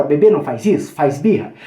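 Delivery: loud mock scolding of a toddler; scolding a baby. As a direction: tell off a baby throwing food. Mother scolds a fussy baby. (bronca de mãe no bebê)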